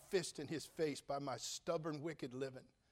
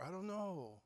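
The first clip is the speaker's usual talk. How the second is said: "I don't know" a little higher and softer, falling on "know"; thoughtful reply; 4 semitones higher, 3 dB quieter, slower than usual. Shown as a demonstration. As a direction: muse "I don't know" gently, still thinking. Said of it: "She didn't say".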